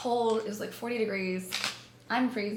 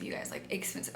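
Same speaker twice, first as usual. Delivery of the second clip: "expensive" repeated in a near whisper, softer; hushed echo of "expensive"; breathy emphatic repeat; 8 dB quieter than usual. Shown as a demonstration.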